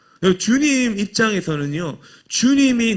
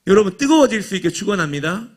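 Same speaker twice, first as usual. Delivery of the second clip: preacher's blessing on 뜨거워질, a touch louder with a rising call; right blessing; 3 dB louder, faster than usual. Shown as a demonstration. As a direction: bless the congregation with conviction to draw an amen. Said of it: "이렇게 하면 아멘 안 하잖아요".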